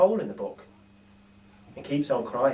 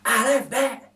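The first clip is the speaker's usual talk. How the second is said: lightly voiced gruff burglar, slowed; a hint of a pleased thief eyeing loot; Burglar Bill voice; 8 semitones higher, 4 dB louder, slower than usual. Narrator voices Bill admiring a toothbrush, lightly voiced. Bill's voice in read story.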